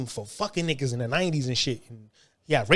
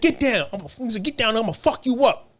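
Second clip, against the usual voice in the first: pitched up, menacing order; higher mock threat; 6 semitones higher than usual. The cellmate ordering him down off the bunk, higher mock threat.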